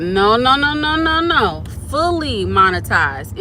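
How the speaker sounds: rising run of no's, then a slow, weighty "Fully"; "Fully" drawn out for emphasis; stress on Fully. Real, not acted. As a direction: lean hard on "Fully" and stretch it out. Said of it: "Emphasis on fully".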